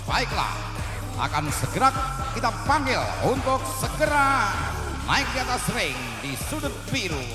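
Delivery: booming ringside MC intro; ring announcer. Acted. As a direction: announce it to the whole arena.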